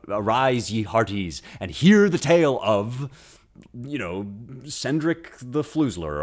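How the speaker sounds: loud, grand call to the crowd at the inn; tavern storyteller. Pretend. Bard calling the inn crowd to a tale, loud and grand. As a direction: hail the hearties like a bard. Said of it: "gathered around the fire at the inn".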